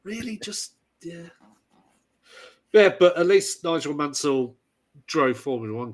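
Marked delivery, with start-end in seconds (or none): 0.0-1.3 high-pitched, doubtful "really"; retold disbelief, pitched right up; incredulous reaction. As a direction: squeak it out in disbelief, tailing off. Retells own unimpressed first reaction.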